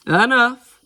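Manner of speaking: high, loud cut-off; loud, commanding stop; firm interruption. A narrator's reading. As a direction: cut the squabble short with one loud word. Wyatt cuts off the squabble.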